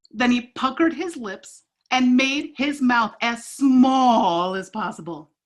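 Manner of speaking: lively read-aloud with paced character lines; storybook read-aloud. Acted. Teacher reading a picture book to kids, animated. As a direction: tell the story to a circle of kids.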